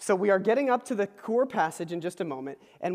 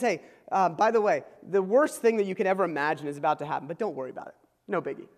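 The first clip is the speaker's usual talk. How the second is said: mock casual; 2 semitones lower, faster than usual. Someone breaks the worst news to you, mock casual. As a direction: toss it off, dropping away at the end.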